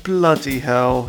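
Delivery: slow, drawn-out mock Cockney bloody hell; lightly hammed-up Cockney catchphrase; mock Cockney exclamation. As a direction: stretch it out like a TV Cockney. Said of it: "typical American T V Cockney".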